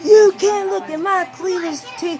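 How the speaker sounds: high, loud slip: "Cletus T" blurted instead of "cleavage"; retold scream. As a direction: yell it as the garbled wrong word first. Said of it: "sitting here screaming".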